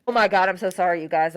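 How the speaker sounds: talking through a yawn. Real, not acted. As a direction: yawn while speaking. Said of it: "I cannot believe I'm yawning".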